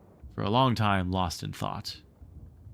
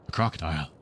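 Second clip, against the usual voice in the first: gasped; 6 semitones lower, much faster than usual. Acted. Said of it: "he gasped".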